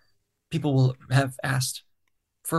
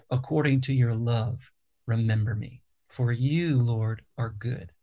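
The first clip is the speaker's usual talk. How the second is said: dramatic reading. Shown as a demonstration. Songwriter giving a dramatic reading of Psalm 25. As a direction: read it like scripture from a lectern. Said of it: "so there's a dramatic reading".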